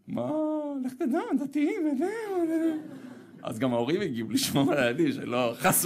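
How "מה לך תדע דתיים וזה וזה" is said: high, whiny mock fretting parent; mock worried parent. Father mocking the parents who feared religious singers, high and whiny. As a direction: squeal their fear of the religious folk.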